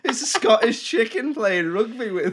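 words breaking into giggles; giggly, helpless retelling; laughing while speaking. Retold or imitated. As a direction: laugh through the line, high at the end. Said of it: "chuckling to myself".

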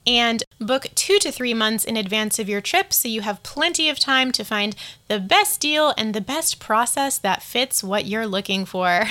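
smooth, polished announcement read like cabin crew; calm Siri-like assistant delivery; flight attendant voice. Acted. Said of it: "my Siri voice or my flight attendant voice".

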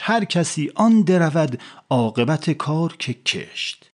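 slow, measured verse; poem recitation. Acted. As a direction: recite it like classical poetry. Hafez recites his verse. (خوانش آهسته و آهنگین شعر)

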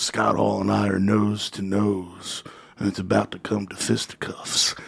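low, slow storyteller, lightly imitated; a hint of the wrestler's low drawn-out menace; Jake the Snake. Wrestler telling of a near fight, lightly imitated low voice. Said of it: "And he goes".

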